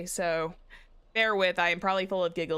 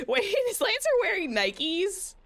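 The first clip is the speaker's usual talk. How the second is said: surprised; 12 semitones higher, 3 dB louder than usual. Real, not acted. Surprised reaction noticing shoes.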